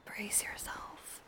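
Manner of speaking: slow, very soft whisper. Acted. Warns her partner teasingly, slow soft whisper. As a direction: breathe it slowly as a tease.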